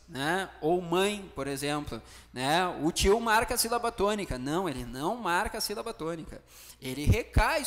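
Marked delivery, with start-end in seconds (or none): 2.8-4.4 higher, lightly acted pupil's query; mock student putting a doubt to the teacher; student's question. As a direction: ask it as a student would, pitched up. Voices a student's question, then answers it.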